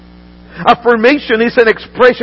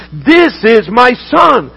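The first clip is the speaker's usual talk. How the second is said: slow proclamation; slower than usual. Acted. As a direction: proclaim it like a voice from heaven. Preacher proclaims the Father's words.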